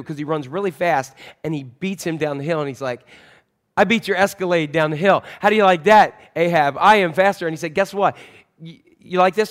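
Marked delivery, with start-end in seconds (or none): 3.8-7.5 gloating boast, pitched up and louder; cocky prophet taunting King Ahab. Retold or imitated. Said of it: "So he's really cocky". 7.7-9.5 cocky taunt. Retold or imitated. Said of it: "So he's really cocky".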